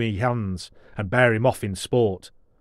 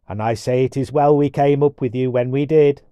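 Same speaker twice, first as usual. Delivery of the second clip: dwarf voice; 3 semitones higher, 5 dB louder than usual. Acted.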